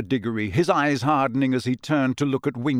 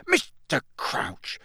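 horrified; 5 semitones higher, 3 dB louder, slower than usual. Acted. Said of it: "Amos Diggory looked horrified".

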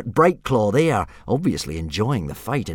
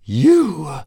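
hissed; 7 semitones higher, 5 dB louder than usual. Acted. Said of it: "hissed Fireworm".

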